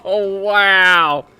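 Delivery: laughing wow, loud and high. Real, not acted. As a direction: laugh out the disbelief. Laughing at a turn of events.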